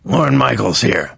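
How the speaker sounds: gravelly voice, slow; slow gravelly Lorne Michaels voice; Lorne Michaels impression. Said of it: "why are you talking like Lorne Michaels".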